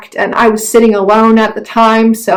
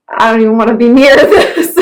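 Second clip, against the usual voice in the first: laughing. Retold or imitated. Laughing through quoted reaction.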